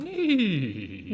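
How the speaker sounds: squeaky silly yelp; joke high screech. Pretend. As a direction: blurt a comic high cry. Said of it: "Nope, not that. Not that kind".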